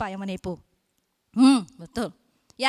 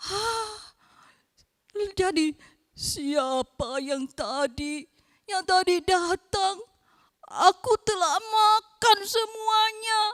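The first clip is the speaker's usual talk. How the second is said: shocked; 4 semitones higher, slower than usual. Acted. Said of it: "Dia kaget luar biasa".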